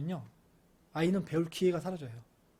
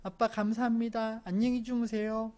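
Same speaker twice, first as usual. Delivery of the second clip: a hint of singsong child courtesy; imitated polite child; 4 semitones higher than usual. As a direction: recite thanks and goodnight like a dutiful little kid. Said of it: "그러면서 딱 가면서".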